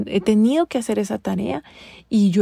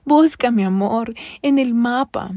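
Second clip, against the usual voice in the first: whispered fake tenderness; sweet on the surface, biting underneath; a breathy hypocritical "mi amor"; hypocritical loving voice. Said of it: "con mi voz amorosita hipócrita".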